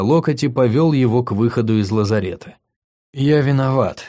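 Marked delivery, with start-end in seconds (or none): 3.1-4.0 sincere remorse. Acted. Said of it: "искреннее раскаяние".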